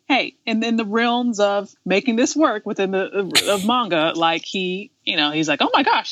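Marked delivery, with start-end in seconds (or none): 5.6-6.1 high, gushing imitation; mock excitement. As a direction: act out delight at a bargain. Acting out character's delight at bargain.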